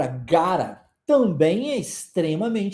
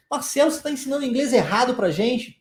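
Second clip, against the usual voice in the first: mock student question; 4 semitones higher, faster than usual. Voices a student challenging him.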